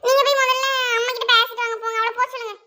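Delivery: hammed-up whiny wail; sing-song crying demand; tearful pleading. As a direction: beg through put-on tears. Crying wife begs husband.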